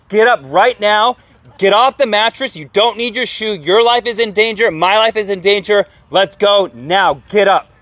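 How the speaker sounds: high, loud, urgent orders; full-on yell. Retold or imitated. Rescuer ordering an elderly man out of the house, yelling. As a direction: re-enact yelling someone out of danger. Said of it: "I full on yelled".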